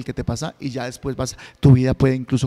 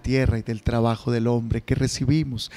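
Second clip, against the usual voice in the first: lower, measured priestly prayer; liturgical prayer; 3 semitones lower than usual. Acted. Priest's offertory prayers at Mass.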